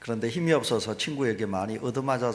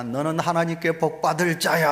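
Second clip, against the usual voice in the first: retold shouted blessing; 4 semitones higher than usual. Boy shouting a blessing to the mountain, mild retold shout. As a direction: call it out as if for an echo. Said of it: "메이어가 소리를 쳤습니다".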